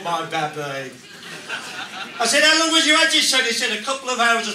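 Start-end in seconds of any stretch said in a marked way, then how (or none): 0.0-0.9 low, soft doting murmur; hushed, put-on tenderness; mock proud father. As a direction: melt into a proud dad's murmur. Proud father recalls his thought.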